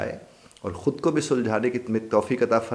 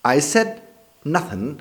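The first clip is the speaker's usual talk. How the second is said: higher, louder protest of innocence; defensive denial; 7 semitones higher, 5 dB louder, much slower than usual. Shown as a demonstration. The accused man answers back, defensive. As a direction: protest that you said nothing. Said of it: "आगे से साहब ने जवाब क्या दिया?".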